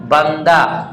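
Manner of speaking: बंदा ending in a long open aa; final h as alif. Shown as a demonstration. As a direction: end बंदा on aa, with no h sound. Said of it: "आवाज अलिफ की तरह होती है".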